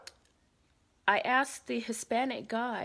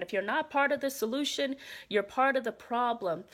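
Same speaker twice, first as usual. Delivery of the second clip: mock bullhorn announcement; 3 semitones higher, 4 dB louder than usual. Bullhorn chant repeated.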